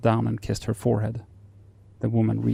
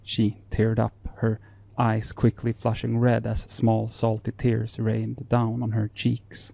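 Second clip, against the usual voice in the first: story narration. Acted.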